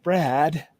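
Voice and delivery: put-on rough stab at a British accent, slowing down; badly faked British accent, drawn out at the end; Ruth's accent. Co-host mimicking an absent colleague, in a half-hearted British accent. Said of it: "do it in her accent".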